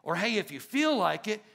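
lightly mocking a lazy invitation; mild mock shrug; casual offhand. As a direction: toss it off like it's optional. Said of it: "he wasn't saying".

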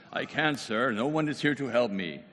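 put-on formal old-movie delivery of the plea; proper King James film voice; stiff King James English. Shown as a demonstration. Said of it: "with the King James English".

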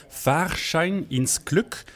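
"Fahrschein ins Glück" said slowly and carefully in German; slow, deliberate German title read; careful German pronunciation. Shown as a demonstration. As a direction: spell out "Fahrschein ins Glück" for a listener who speaks no German. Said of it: "Rune, est-ce que vous pouvez m'aider?".

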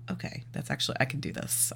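hushed note-to-self; quiet self-reassurance. Retold or imitated. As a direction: drop the volume as if reassuring yourself. Relieved self-talk after seeing list.

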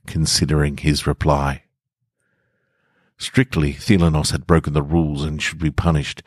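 steady, measured storytelling read; story narration. A narrator's reading. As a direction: read it like a calm audiobook narrator.

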